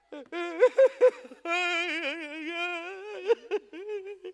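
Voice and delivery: fake cry. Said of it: "It makes me want to cry. Like this".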